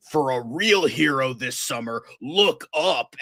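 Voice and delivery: mock movie-trailer announcer, rising high; hammed-up trailer narrator. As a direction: parody the epic trailer line. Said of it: "They're like".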